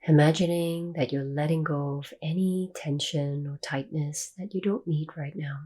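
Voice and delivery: calm meditation guide, long pauses between phrases; guided meditation. Real, not acted. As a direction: ease listeners into stillness, leaving long silences.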